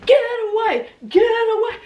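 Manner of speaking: high yells with a laugh; frantic yelling. Retold or imitated. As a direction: shout it across the yard, half laughing. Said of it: "I'm out there going".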